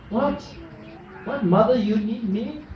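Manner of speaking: put-on startled, rising high child voice; a child amazed that Mary needs them; mock wide-eyed wonder; surprised child. Child answers Our Lady.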